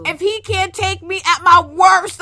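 mock meme quote. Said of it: "ones on relationships".

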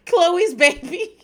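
loud, high, slow tearful wail; emotional. Real, not acted. Podcaster on the baby she worries about, emotional wail. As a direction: wail it slowly, half crying. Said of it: "gets me so emotional".

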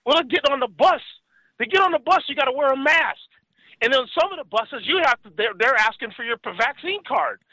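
complaining friend. Retold or imitated. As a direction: voice a frustrated ex-con.

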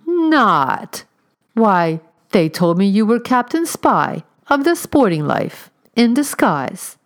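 high, loud, drawn-out astonishment; mock surprise. A narrator's reading. Augustus teasing the stranger with mock surprise. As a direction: lay on the fake amazement thick.

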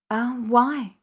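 tight, bitter question; through the teeth. A narrator's reading. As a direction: push it out through gritted teeth. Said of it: "she said through her teeth".

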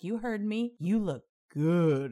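mock the creep drawing it out; imitated catcaller. Imitating the street guy leering at her, slow and loud. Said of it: "he was like".

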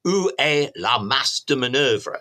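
put-on English-accented French, carefully spoken; Churchill's best French. Historian quoting Churchill to General Gamelin, in English-accented French. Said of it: "as Churchill puts it in his best French".

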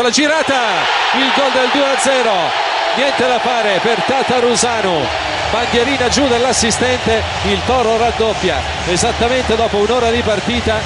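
excited goal call. Real, not acted. Goal call in live commentary.

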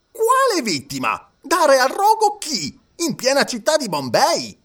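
high, slowed astonished questions; baffled, questioning each word; bewildered judge. A narrator's reading. (giudice sbalordito, acuto)

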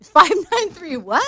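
host catching a co-host's wrong digit; puzzled question. Real, not acted. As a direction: ask back as if you misheard.

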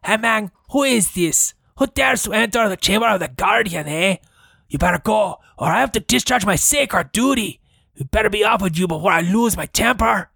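lightly voiced Cheech stoner guard. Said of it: "That was my best, uh, Cheech and Chong version".

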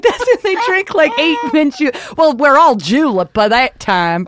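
high, loud impression of a friend; excitable high-pitched mimicry; Trish. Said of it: "She's like".

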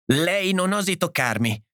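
high-pitched warning at normal volume; crying out. A narrator's reading. Edith warning them off, crying out. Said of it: "gridò Edith".

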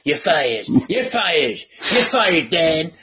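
low, drawn-out repeated catchphrase; lightly voiced Trump firing Dan; Trump impression. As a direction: deepen it like the TV boss firing someone. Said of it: "Just hear the Trump voice now".

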